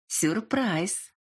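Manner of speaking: languid, breathy-toned surprise; drawn-out seductive whisper of a word; sultry female voice. A narrator's reading. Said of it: "томно произнесла Лёля".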